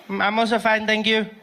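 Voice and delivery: put-on high polite kid voice; prim little boy; little brother voice. Isaac answers politely, high kid voice.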